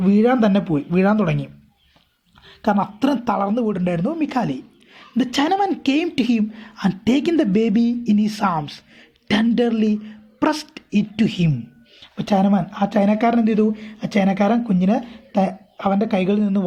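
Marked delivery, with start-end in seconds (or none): 5.2-11.5 a careful read-aloud for students; slow story reading. A narrator's reading. Teacher reading the English text aloud to her class, slow and deliberate. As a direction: read each English phrase slowly and deliberately.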